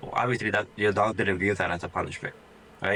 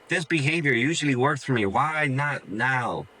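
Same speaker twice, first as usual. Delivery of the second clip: puzzled dog voice; 3 semitones higher than usual. Pretend. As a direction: voice the dog, confused that barking fails. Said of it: "your dog is going".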